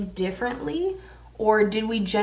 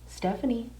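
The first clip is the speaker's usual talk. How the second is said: ghostly voice saying her name; 2 semitones higher, 6 dB quieter than usual. Retold or imitated. Retelling a ghost whispering her name, soft and eerie. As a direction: imitate the spooky voice that called her. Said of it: "It literally goes".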